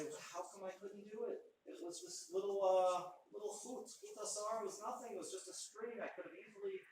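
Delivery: a sage sighing over a string he could have snapped; a touch of mournful regret; mild lament. Acted. Rishonim lament at end of time.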